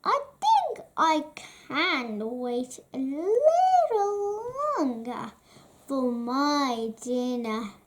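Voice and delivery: troll voice. Acted. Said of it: "said the troll".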